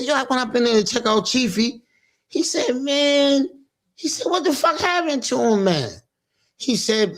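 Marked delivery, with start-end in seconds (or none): 0.0-5.9 higher voice for Black Sab; retelling Black Sab in a high voice; imitating Black Sab. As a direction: voice the friend, pitched up. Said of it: "Black Sab said".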